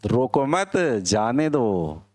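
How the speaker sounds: slow "रोको मत", then let "जाने दो" go, drawn out; group "रोको मत" together, apart from a slow "जाने दो"; pause after मत. Shown as a demonstration. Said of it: "पोज कहाँ देना है ये बदला".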